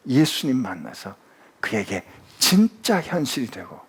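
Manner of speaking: ordinary delivery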